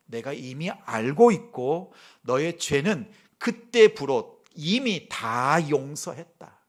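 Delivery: a hint of a booming divine father; lightly voiced father. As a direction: speak as a forgiving father, deliberately. Father's voice of God forgiving.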